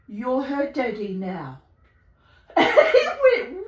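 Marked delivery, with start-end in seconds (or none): 0.1-1.6 slow, low, deliberate verdict; acted pronouncement. Telling the neighbour the cat is his, slow pronouncement. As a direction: lay it down slowly, pitch dropping.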